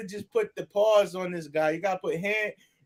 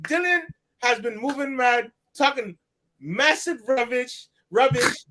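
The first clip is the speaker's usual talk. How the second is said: a lightly put-on London accent; American doing a playful British accent; mock UK accent. Friend showing off his UK accent to viewers, mock British accent. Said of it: "trying my best to sound with my U K accent".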